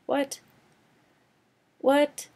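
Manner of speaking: baffled outrage; real disbelief at the movie; incredulous. Real, not acted. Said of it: "disbelief at the plot".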